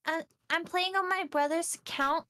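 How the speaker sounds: lightly voiced little kid; halting kid talk, pitched a bit up; seven-year-old. Shown as a demonstration. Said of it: "like, a seven-year-old".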